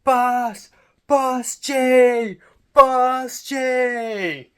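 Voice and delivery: loud, high shout to stop a bus; full-voiced high holler; calling out. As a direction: yell urgently after the bus. Shouting after a departing bus.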